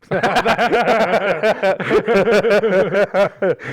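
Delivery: loud, high, helpless laughing fit; real burst of laughter. Real, not acted. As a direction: crack up hard at the punchline. Cracking up at "hypocrites" joke.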